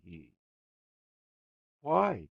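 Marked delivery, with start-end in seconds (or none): 1.8-2.3 pathetic. A narrator's reading. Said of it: "he said pathetically".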